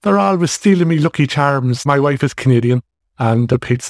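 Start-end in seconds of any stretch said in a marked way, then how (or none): 0.0-1.9 lightly mimicked typical Irish accent, raised pitch; a hint of mock lilting Irish; lilty Irish accent. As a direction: put on a touch of stock Irish lilt. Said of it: "Irish lilty accent".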